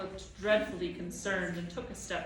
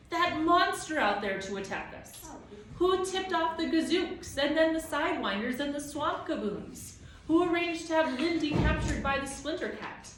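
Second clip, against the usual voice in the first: loud, higher, indignant shouting; yelling back; 8 semitones higher, 5 dB louder than usual. A narrator's reading. Tom yelling at the towering Proc, furious. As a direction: hurl the questions up at him. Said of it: "he yelled at the towering Proc".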